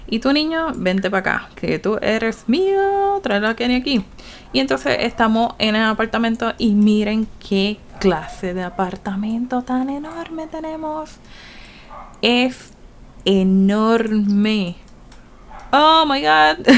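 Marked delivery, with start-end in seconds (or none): 0.1-4.0 put-on beckoning the boy over, playfully; mock call to a kid. Sims mom calling the boy over, mock stern. 15.7-16.7 louder, higher gasp of amazement; surprised. Real, not acted. Gamer amazed at her new apartment, loud surprise. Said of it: "surprised at the huge apartment".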